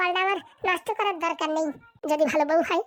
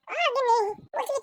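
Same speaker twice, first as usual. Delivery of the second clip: calling out to wife; 3 semitones higher than usual. Acted. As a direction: call out for your wife, pitched up a little.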